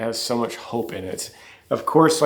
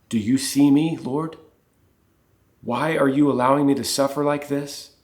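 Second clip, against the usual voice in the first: pleading prayer; 4 semitones higher, 4 dB louder than usual. Retold or imitated. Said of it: "How often must she have wondered".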